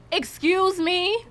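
high, slow, stretched disbelief; incredulous. Real, not acted. Reacting to the dating-site man, slow incredulous.

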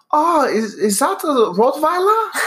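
put-on high, slow German accent; hammed-up German accent asking about the dog. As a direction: mimic the German tourist's accent. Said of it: "a German dude".

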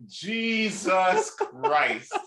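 long drawn-out, high exclamation; slow, appalled reaction; stunned disbelief. Retold or imitated. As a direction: stretch it out in mock shock. Retells stunned reaction to shocking remark.

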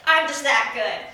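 playfully boastful; smug and cocky. Pretend. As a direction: brag with mock swagger. Bragging about haircut skill.

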